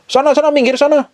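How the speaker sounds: high-pitched, repeated brush-off; irritated shooing. Acted. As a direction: act out a spouse pushing the other away. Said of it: "deket suami ada yang gerah". (usiran risih, nada tinggi)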